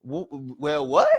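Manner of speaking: flustered, laughing surprise; caught off guard. Retold or imitated. Gary already knows him, flustered laughing surprise. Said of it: "caught off guard".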